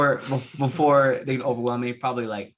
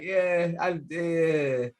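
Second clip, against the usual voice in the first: lightly imitating a bad Jamaican accent; mock Jamaican accent; 2 semitones higher, much slower than usual. Guest mocking a celebrity's accent for the host, lightly imitated Jamaican accent. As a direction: mumble a poor take on a Jamaican accent. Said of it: "His Jamaican accent is like".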